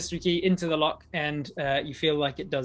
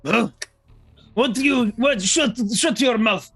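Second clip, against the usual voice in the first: higher, louder gruff jailer; jailer snapping; 8 semitones higher, 10 dB louder, slower than usual. Acted. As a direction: bark at the prisoner to shut up. GM voices angry jailer.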